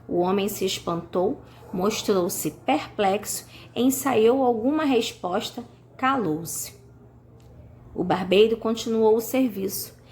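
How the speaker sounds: leitura didática de um conto, frases pausadas; leitura de história. A narrator's reading. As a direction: leia a história aos alunos, com pausas entre as frases. Lê um conto aos alunos. (narração escolar pausada)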